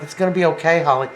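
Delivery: imitating a quick attempt to reassure; lightly voiced soothing promise; retold reassurance. Boyfriend to girlfriend who is having a fit, reassuring. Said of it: "she's having a fit, and he's like".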